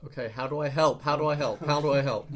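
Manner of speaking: urgent pleading. Acted. Player urgently pressing the captive.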